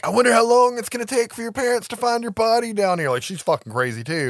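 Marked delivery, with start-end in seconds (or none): 0.1-3.1 high, sing-song menacing voice; creepy villain. Retold or imitated. Sonia taunting Cole in the crawl space, creepy high sing-song. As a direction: sweetly threaten the hiding boy. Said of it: "and she's like".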